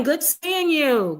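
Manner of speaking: lifted, slow, high-pitched hello; bright high greeting. Real, not acted. Host greeting chat viewer Deluxe Life, high excited hello.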